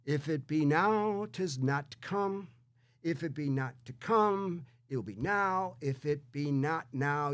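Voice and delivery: slow, measured dramatic reading; Shakespeare recitation. Acted. Hamlet's speech before the duel, read slowly and solemnly. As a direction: deliver the lines as a stage speech, slowly. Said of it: "he says it like this, and I'll, here it goes".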